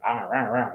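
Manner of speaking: low, soft rah with the mouth open; open-mouthed American sound. Retold or imitated. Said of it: "they open up their mouths like".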